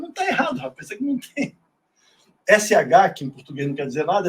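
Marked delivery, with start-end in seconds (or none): 0.0-1.6 Não tá errado, higher, brushing it off; replying to the critic, higher; retorting. Retold or imitated. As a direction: retell your own high retort. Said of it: "Eu falei".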